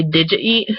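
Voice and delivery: "did you eat" as DIDJA-eet; casual contraction. Shown as a demonstration. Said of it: "I tend to say".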